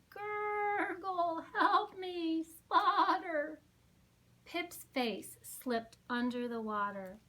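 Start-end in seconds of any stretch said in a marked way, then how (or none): 0.1-3.6 spluttering plea. Acted. Pip drowning.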